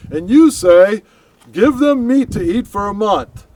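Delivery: very high, loud disbelieving outcry; incredulous protest. Acted. Moses to God, protesting the meat promise in disbelief. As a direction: shout it in disbelief at the impossible. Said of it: "Moses' response is".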